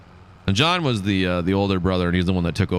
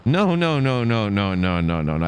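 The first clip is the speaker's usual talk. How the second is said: mock dismissive repeated no; slower than usual. Retold advisor denying.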